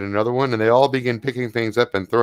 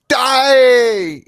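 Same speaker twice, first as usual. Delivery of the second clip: higher, louder battle cry of "die!"; fierce shout; 12 semitones higher, 6 dB louder than usual. Acted. GM's creature screams at Rira to die, a high loud war cry. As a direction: scream the kill order.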